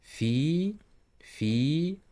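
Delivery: Fi with a clear i vowel; pronounce the i. Shown as a demonstration. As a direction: say Fi with a bright i. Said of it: "you should pronounce E here".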